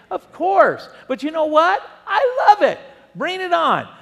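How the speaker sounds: high, loud, laughing exultation; a preacher daring the devil; excited. Real, not acted. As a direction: relish the fight, bring it on. Preacher exults over challenges.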